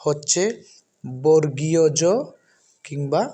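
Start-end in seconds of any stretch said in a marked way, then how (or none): 1.2-2.0 বর্গীয় জ carefully, with g and ee-o; firm, louder বর্গীয় জ, each part distinct; correct letter name. Shown as a demonstration. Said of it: "উচ্চারণ".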